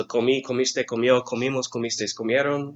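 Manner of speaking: brisk recitation of verb forms. Shown as a demonstration. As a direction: rattle the endings off in one run. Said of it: "a little more quickly".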